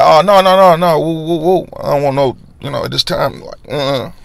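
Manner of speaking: dodging the question with a nervous woo; flustered refusal. Retold or imitated. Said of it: "I'm like".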